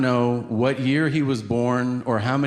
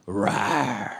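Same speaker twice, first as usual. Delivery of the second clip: low playful "rawr"; mock-growl to amuse a toddler; fake angry roar; 4 semitones lower than usual. Shown as a demonstration. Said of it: "performative anger".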